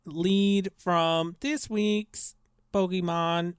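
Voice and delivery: flat machine monotone; robot voice. Acted. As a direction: preach machine superiority coldly. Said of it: "Why are you a robot right now?".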